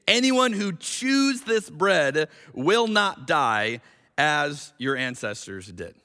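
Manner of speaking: slow, with chews leaned on; slow stressed reading. Shown as a demonstration. Preacher reading verse fifty-eight literally, chews stressed. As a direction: drag the line out and stress chews. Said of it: "read this with that literally in mind".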